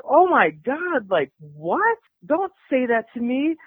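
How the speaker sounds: high-pitched mock disgust; imitated disgust. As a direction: act out a disgusted woman recoiling. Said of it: "of course, disgusted".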